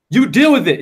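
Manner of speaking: imitating a mom fighting back; combative mother. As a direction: throw it back like a battling mother, mildly. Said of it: "she's battling me".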